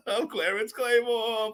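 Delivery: veel hoger en traag, lichtjes nagedaan; imitating the clip. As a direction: doe de zin uit het filmpje na, traag. Repeats the line from the clip.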